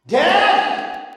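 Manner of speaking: put-on very high-pitched kid call; hammed-up child hollering for a parent; boy yelling. Boy calls dad a third time, high mock yell.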